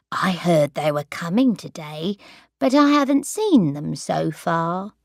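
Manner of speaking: wander off, mildly muddled after the wine; confused old grandmother. Acted.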